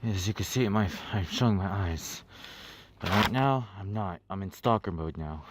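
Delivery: hushed, sneaky low-key voice; quiet stalker mode. Pretend. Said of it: "I gotta activate stalker mode".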